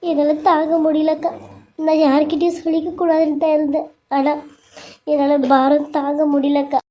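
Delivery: crying woman confides in her sister-in-law; tearful pleading. Acted. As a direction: voice full of tears, pouring out grief. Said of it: "அழாத".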